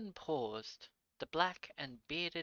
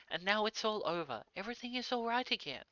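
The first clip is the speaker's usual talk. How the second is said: put-on joyful old father; 9 semitones higher, 6 dB louder, faster than usual. Old father overjoyed at return.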